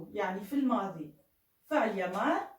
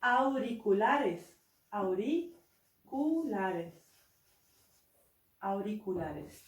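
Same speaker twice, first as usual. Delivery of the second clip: slow repetition; much slower than usual. Shown as a demonstration. Teacher drilling the new word, slowly. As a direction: stretch the word out slowly three times. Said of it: "الآن كيف نقول سماعات؟".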